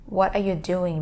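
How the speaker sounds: "What are you doing?" with each word sounded; careful, uncombined "What are you doing?"; separate words. Shown as a demonstration. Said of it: "It's like the words are combined".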